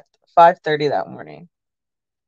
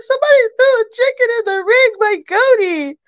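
high, agitated retelling of her own words; worked-up reply; 13 semitones higher than usual. Retold or imitated. Fan tells friends about the chicken, high and agitated. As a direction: squeak it out in disbelief.

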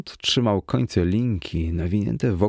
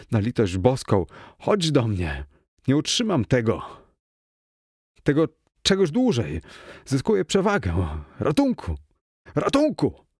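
plea climbing into high cries for help; desperate pleading; 5 semitones higher than usual. A narrator's reading. Man losing his grip on the creature, increasingly desperate pleading. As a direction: build from entreaty to high-pitched panic. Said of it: "zawołałem już zrozpaczony".

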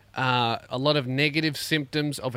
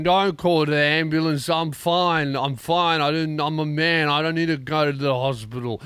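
loud, higher insistence that he's fine; dying stubborn man; 3 semitones higher, 4 dB louder than usual. Retold or imitated. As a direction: refuse the ambulance with macho pride. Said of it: "He's like".

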